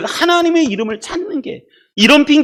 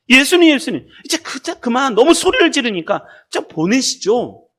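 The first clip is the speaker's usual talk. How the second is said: lightly acted, higher-pitched request; complaining disciples; 5 semitones higher than usual. Preacher as disciples asking Jesus to send her away, lightly pressing. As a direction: press the master with mild urgency. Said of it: "제자들이 와서 청하여 말하되".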